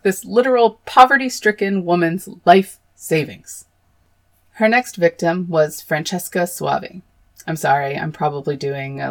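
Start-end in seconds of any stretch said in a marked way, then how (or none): 5.8-7.0 name rolled in a mock Italian accent; exaggerated Italian accent. Shown as a demonstration. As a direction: savour Soavi in an overdone Italian accent. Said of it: "like, exaggerated Italian accent".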